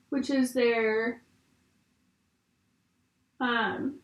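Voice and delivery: talking while doing mascara; distracted, halting while applying mascara. Real, not acted. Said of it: "I can't talk and do mascara at the same time".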